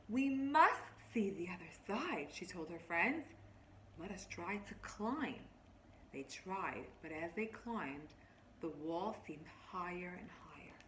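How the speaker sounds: lightly voiced story narration, drawing them in; reading to children. Teacher reading a picture book to her class, storybook voice.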